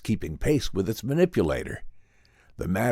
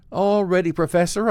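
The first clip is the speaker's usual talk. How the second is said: bright, high and louder cheerful reply; 11 semitones higher, 5 dB louder than usual. A narrator's reading. Assistant answers the professor before the experiment, cheerfully. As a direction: cheer him along, voice lifted high and louder. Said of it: "I said cheerfully".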